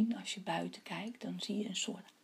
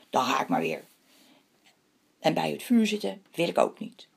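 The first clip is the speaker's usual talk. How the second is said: cross, offended moon, louder; angry; 3 semitones lower, 9 dB louder, faster than usual. A narrator's reading. The moon refuses the hare's fire, angry. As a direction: say it crossly, a touch of anger. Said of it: "De maan zei boos".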